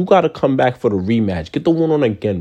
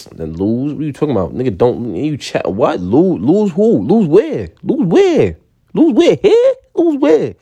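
incredulous retort; 3 semitones higher than usual. Retold or imitated. Firing back at commenters who said Silva would lose, rising outrage. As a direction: build from disbelief to a squeaky outraged peak. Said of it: "I'm like".

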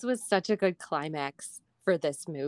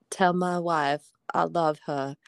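put-on Alabama accent; 3 semitones lower than usual. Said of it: "go into the accent".

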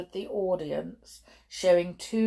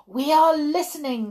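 high, quick crowd cry; excited cry; 9 semitones higher, 6 dB louder, faster than usual. Acted. Audience jumping with excitement answers the witch, high eager cry. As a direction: pipe up eagerly as a whole audience. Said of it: "cried the audience".

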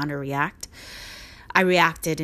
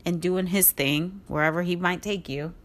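ordinary delivery

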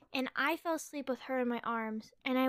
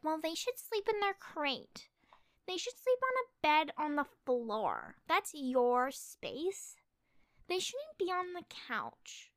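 judgmental critic; 3 semitones higher, slower than usual. Retold or imitated. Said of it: "and if you're like".

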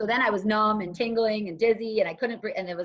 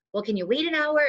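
pleading bargain; 7 semitones higher, 3 dB louder than usual. Retold or imitated. Bargaining with county caller.

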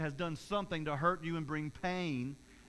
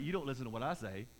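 voice of God; 6 semitones lower, 4 dB quieter, faster than usual. Retold or imitated. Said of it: "God's like".

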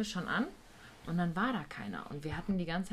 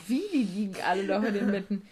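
louder, disbelieving repeat of the question; incredulous echo; 2 semitones higher, 6 dB louder than usual. Retold or imitated. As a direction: throw the line back in shock. Ungläubiges Nachfragen im Rückblick. (laut und ungläubig)

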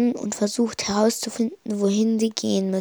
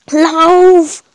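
high, loud urgent shout; panicked roar to flee; 7 semitones higher, 10 dB louder than usual. A narrator's reading. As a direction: yell at your friend to run. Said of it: "brüllte Primo".

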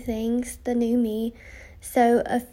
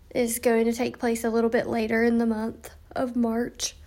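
yawning. Real, not acted. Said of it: "I'm sorry that I'm yawning".

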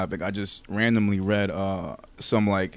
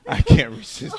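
high, breathless through laughter; laughing whisper; 3 dB louder than usual. Real, not acted. Giving in to the massager, breathless laughter. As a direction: gasp it out between laughs.

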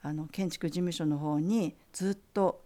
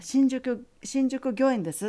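lightly voiced, higher gracious lady; teacher's voice; 6 semitones higher, 4 dB louder, slower than usual. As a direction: answer like the elegant teacher, pitched up. Teacher names her office.

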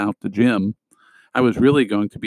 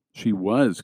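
miserable; 3 dB quieter than usual. Acted. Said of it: "Katie explained miserably".

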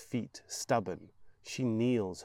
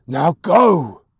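loud, harsh command; mad shout; 7 semitones higher, 20 dB louder than usual. Acted. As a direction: bark it at the boy. Mad mother orders son away.

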